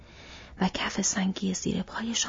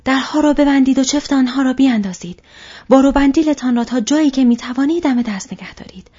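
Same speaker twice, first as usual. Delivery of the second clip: high, loud commanding shout; shouted orders; 6 semitones higher, 11 dB louder than usual. Acted. Aragorn shouts to the fellowship to bar the doors, commanding. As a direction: bark orders across the hall. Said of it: "آراگورن فریاد زد".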